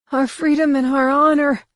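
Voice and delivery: high, strained refusal; a captive heretic's high, strained defiance; defiant prisoner. A narrator's reading. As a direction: refuse him outright. Prisoner defies the overlord.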